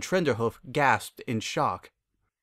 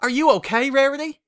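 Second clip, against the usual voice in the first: concerned question; 14 semitones higher, 7 dB louder than usual. Acted. Applejack asks hurt friend.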